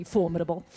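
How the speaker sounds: "formidable" stressed on FOR; stress on first syllable. Retold or imitated. Actress disputing the coach's version, "formidable" stressed on FOR. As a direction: say "formidable" as FOR-midable. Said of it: "I was going".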